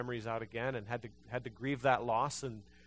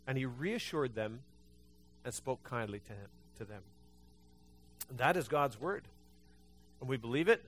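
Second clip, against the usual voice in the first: usual speaking voice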